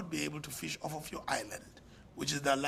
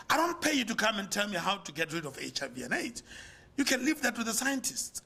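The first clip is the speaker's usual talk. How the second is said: arrogant lecture; 3 semitones higher than usual. Retold or imitated. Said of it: "how arrogant we can get".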